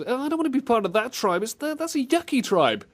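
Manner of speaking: put-on childish whine. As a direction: whine it like a six-year-old. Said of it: "It sounds like a six-year-old".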